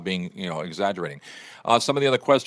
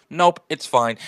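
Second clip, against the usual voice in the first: put-on kid brushing it off; 5 semitones higher, 7 dB louder, slower than usual. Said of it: "he'll go".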